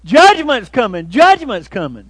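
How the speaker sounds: frantic loud cry; screaming. Retold or imitated. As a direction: yell it while running in panic. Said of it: "he was screaming".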